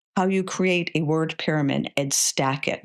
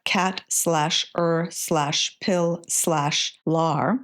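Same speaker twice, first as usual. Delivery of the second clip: slowly spelled out; much slower than usual. Shown as a demonstration. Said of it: "build the word pyramid".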